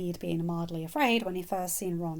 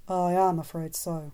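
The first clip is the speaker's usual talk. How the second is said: grave. Acted. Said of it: "Dumbledore said gravely".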